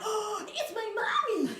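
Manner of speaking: high laughing mommy reveal; laughing realization. Retold or imitated. Coach laughing as she finds her mother's voice inside, high. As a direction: laugh as it dawns on you. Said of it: "And I'm like".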